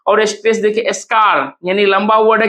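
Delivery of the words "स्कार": स्कार with a long stretched vowel; drawn-out stress. Shown as a demonstration. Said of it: "खींच रहा है".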